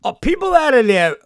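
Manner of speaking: slow, loud, incredulous outburst; stunned anger at people's callousness; outraged disbelief. Real, not acted. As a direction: drag each word out in real outrage. Outraged at the vet clerk.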